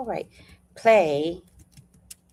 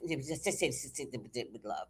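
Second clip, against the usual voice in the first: much softer and lower, fading; 9 semitones lower, 15 dB quieter, faster than usual. Real, not acted. Explaining it was love, soft and fading. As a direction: let it fade into tenderness. Trailing tender aside.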